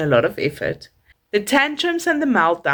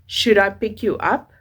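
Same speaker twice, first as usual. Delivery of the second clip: calm but firm. Shown as a demonstration. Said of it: "Use a calm but a firm voice".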